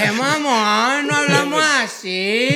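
slow, drawn-out Sonoran sing-song, rising; mock Sonoran accent. Imitating locals who deny their accent, exaggerated Sonoran accent. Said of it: "así llegan diciéndolo tal cual".

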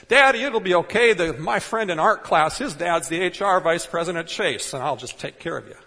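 put-on high, loud little kid reassuring daddy; hammed-up sweet child promising to fix everything; mock child voice. Imagined fourth grader comforting dad.

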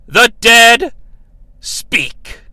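loud then a whispered final word; eerie movie trailer voice; spooky trailer voice. Acted. Mock trailer voice for con.

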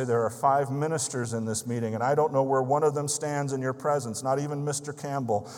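a man praying aloud for revival, loud and longing; fervent loud prayer. Retold or imitated. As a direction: pour out your thirst to God loudly. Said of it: "he went on to say".

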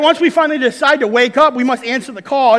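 rally the congregation; preaching at full force. Real, not acted. Preacher drives home the point.

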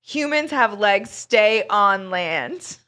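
slow, emphatic mock lecture; angry rant read aloud. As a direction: lay down the law word by word, mildly indignant. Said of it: "this guy was really angry about white sharks".

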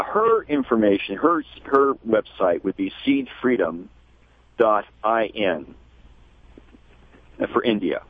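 measured contact details, pauses between parts; slow and clear. Real, not acted. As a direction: spell out the web address slowly. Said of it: "say it slowly and clearly".

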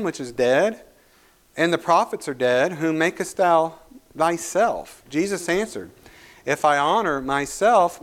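measured, solemn reading of the Bible aloud; scripture reading. Acted. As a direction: read the passage as scripture, steady and grave. Reads scripture passage aloud.

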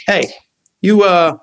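lightly imitating a breezy star, fast; a hint of Robert Downey Jr.'s rapid, casual patter; Downey impression. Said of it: "he's very Downey".

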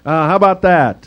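casual, cocky, a bit hammed-up; Jeff Goldblum impression. Preacher imagining Daniel chilling with the lions, mock cool. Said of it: "that's a terrible Jeff Goldblum".

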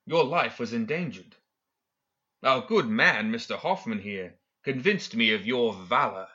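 hint of a courteous villain explaining himself; lightly voiced smooth professor. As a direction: lightly play a confident, self-assured schemer. Villain's dialogue in narrated story.

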